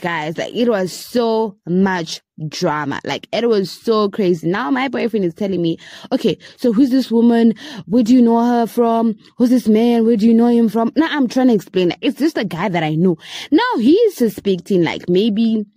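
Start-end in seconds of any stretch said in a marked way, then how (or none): 6.1-10.9 insistent string of questions, slightly raised voice; retold interrogation. Boyfriend quizzing her about strangers, mock interrogation. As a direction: imitate a suspicious boyfriend firing questions.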